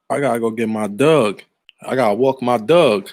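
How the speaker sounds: imitating a West Baltimore friend, "Doug" for dog; Baltimore accent. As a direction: Baltimore vowel, hitting "Doug" at the end. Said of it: "That's how they say it".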